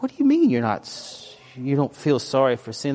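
incredulous, can't believe it; shocked disbelief. Retold or imitated. Pastor reacting to girls not sorry, stunned.

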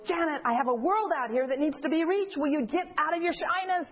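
emphatic, exasperated rebuke; imitated scolding God. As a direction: scold her as God, urging her into action. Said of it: "God was just slapping me upside the head".

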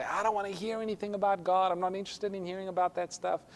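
lightly acted brush-off; mild mock refusal. Brother rebuffs witnessing, acted.

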